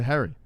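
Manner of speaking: Harry said as "hairy"; "Harry" with the vowel of "hair"; mimicked pronunciation. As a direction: copy "Harry" with an "air" vowel. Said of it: "it turns into Harry".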